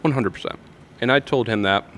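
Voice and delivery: talking while chewing ice; words round a mouthful of ice. Real, not acted. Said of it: "sorry, I'm chewing on ice".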